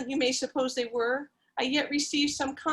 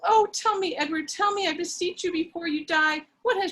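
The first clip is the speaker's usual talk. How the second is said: pleading; 5 semitones higher than usual. Acted. Laura pleads with dying Edward.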